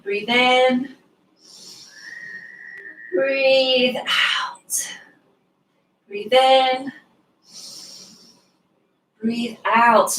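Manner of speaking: long, slow breath-out cue, almost whispered; slow moon time. Shown as a demonstration. Slow moon-time breath cue for the kids. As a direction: draw out "Breathe out" slowly like floating on the moon. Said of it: "Nice and slow in moon time".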